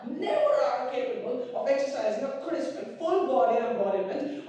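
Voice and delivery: building, high, loud outburst; exasperated tirade. Acted. Acted tirade at an unresponsive friend.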